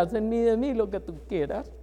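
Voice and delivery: "haz en mí, de mí lo que tú quieras" said soft and devout, as a repeated prayer; soft devoted refrain to God; hushed prayer. Retold or imitated. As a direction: breathe "haz en mí, de mí lo que tú quieras" as a whispered surrender. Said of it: "esa es mi cantaleta".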